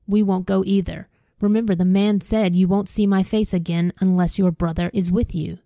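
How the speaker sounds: steady read-aloud storyteller voice; reading scripture aloud to listeners; story narration. Acted. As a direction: read the Bible story to the class. Reads Bible story aloud.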